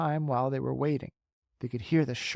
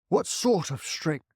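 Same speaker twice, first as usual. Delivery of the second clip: sharply; 4 semitones higher, slower than usual. Acted.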